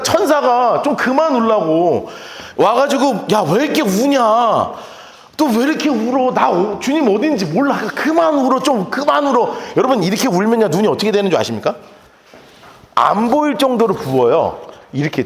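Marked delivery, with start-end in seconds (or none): 3.3-9.6 higher-pitched mock exasperation; exasperated scolding. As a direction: plead impatiently for the crying to stop. Angels voiced scolding the weepers.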